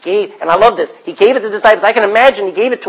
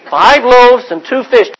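calling out; 4 semitones higher, 6 dB louder, slower than usual. Retold or imitated. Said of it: "he goes out and he says".

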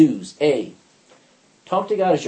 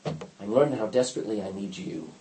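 sincere prayer; 6 semitones lower, 6 dB quieter than usual. Shown as a demonstration. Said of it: "What we need to say is".

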